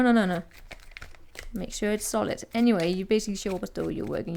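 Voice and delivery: normal talking voice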